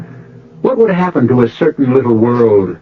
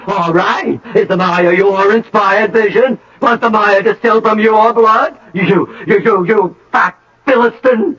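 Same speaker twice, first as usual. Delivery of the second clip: mocking tirade; 10 semitones higher than usual. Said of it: "you could say".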